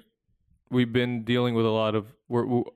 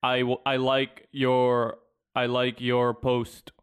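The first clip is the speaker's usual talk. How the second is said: bot comment voice; much slower than usual. Retold or imitated. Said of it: "a really poor grammar post".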